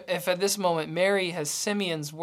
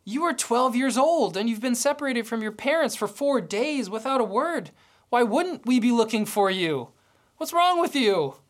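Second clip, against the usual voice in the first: exasperated parent; 3 semitones higher than usual. Retold or imitated. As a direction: let the frustration climb to the end. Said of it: "I would want to, want to respond and say".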